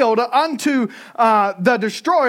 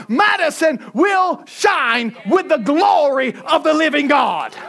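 preaching at full force; 3 semitones higher than usual. Acted. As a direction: rebuke the devil from the pulpit. Preacher declaring against the devil.

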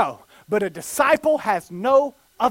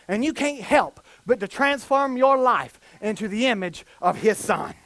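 ordinary delivery

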